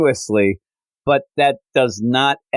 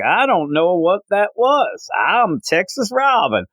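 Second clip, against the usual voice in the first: higher, playful cover-up voice; Texas Robin bluff; 8 semitones higher than usual. Retold or imitated. Robin covering a blunder in front of Cyborg and Beast Boy, mock innocent and higher. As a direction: brush it off in character, pitched up. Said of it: "He's like".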